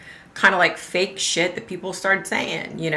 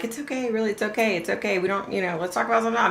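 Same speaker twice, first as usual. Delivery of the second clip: calming; 6 dB quieter, faster than usual. Retold or imitated. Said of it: "literally trying to diffuse the situation".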